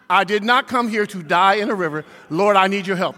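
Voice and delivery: steady, even prayer in the crash; calm prayer. Retold or imitated. Preacher retelling his calm prayer as the car slid. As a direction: say it calmly as could be. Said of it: "Calmly as could be".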